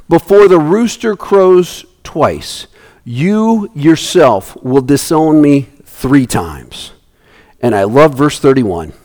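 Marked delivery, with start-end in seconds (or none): 0.1-6.9 solemn warning. Acted.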